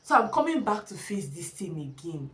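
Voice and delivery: crying it out, hopeless; tearful. Retold or imitated. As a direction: voice cracking into a cry. Retelling dread before school.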